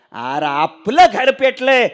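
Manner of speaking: high, loud, dragged-out mock wail; weeping father. Crying father tells son their house burns, loud slow wail. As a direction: lament loudly as a theatrical crying father. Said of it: "बाप रडतोय".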